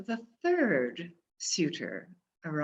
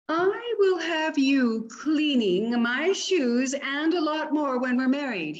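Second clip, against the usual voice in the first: a touch higher, pushy boast; pompous suitor; 6 semitones higher than usual. Acted. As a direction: brag about the future wife.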